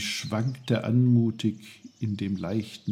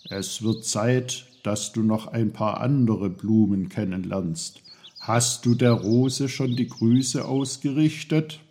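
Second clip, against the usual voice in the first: know-it-all little uncle, teasing. Acted. Voices Onkel Pfefferkorn.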